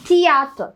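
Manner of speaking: "തിയേറ്റർ" as tee-aa-ta with a t start. Shown as a demonstration. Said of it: "ടി എന്നുള്ള sound തന്നെയാണ്". ("തിയേറ്റർ" ടി ശബ്ദത്തിൽ, തി-ആ-റ്റ)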